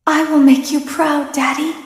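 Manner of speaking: fervent vow. Acted. Villain vows to father.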